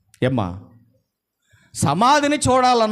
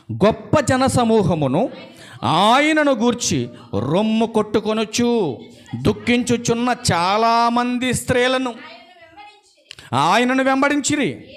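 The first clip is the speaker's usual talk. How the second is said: scripture reading; 4 semitones higher than usual. Acted. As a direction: read the verse out to the congregation, sustained and ringing. (లేఖన పఠనం, సాగదీస్తూ)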